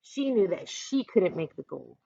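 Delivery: ordinary delivery, nothing marked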